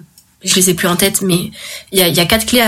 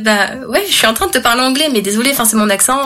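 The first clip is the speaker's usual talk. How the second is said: higher, faster, half-amused comeback; light mock defensiveness, quick and raised; mock exasperated retort; 4 semitones higher, faster than usual. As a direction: toss it back like it's obvious. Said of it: "c'est en mode".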